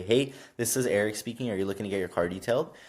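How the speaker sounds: quick, polite call-answering voice; professional phone greeting. Shown as a demonstration. Greeting a caller about car detailing, professionally polite. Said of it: "answer the phone professionally".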